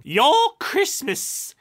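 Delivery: high, loud, slow yell; exasperated shout. A narrator's reading. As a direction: bellow it in frustration.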